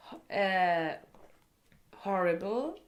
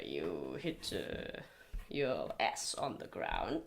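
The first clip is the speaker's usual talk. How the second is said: literal French idiom; 14 semitones lower, 7 dB quieter, slower than usual. Retold or imitated. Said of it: "in French we say".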